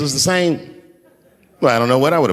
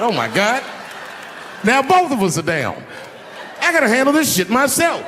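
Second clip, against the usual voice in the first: high panicked shout at the fallen bodyguard; 11 semitones higher than usual. Retold or imitated. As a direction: yell it like everything just went wrong. Retelling panic after bodyguard falls.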